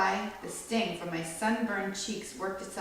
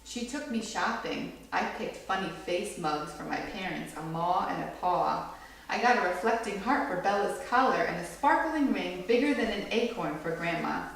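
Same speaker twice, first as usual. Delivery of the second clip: gentle storybook read-aloud; read-aloud to a small audience; reading to children. A narrator's reading. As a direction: read it like a picture book for kids. Reads picture book to children.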